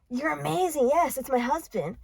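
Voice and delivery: mildly mocking imitation of a mark; gullible client. Gullible client answering the psychic.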